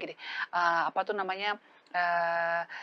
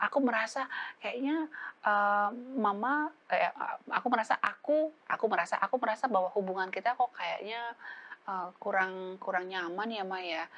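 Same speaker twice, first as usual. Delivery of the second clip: right way, gentle. Shown as a demonstration. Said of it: "bukan langsung".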